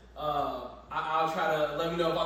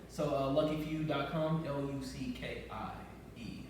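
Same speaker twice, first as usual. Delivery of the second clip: radio voice; 5 dB quieter than usual. Shown as a demonstration. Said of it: "That was my radio voice".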